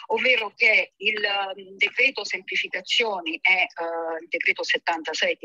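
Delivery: talking over speakerphone. Real, not acted. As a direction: voice through a phone speaker. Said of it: "ce l'ho in viva voce".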